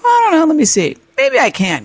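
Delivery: high, playful cocky voice. Retold or imitated. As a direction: act cocky and unsure at once. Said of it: "getting all cocky".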